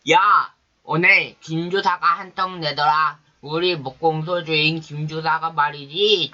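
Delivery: a tipsy one-armed father bragging, ending in a chuckle; drunk boast. Acted.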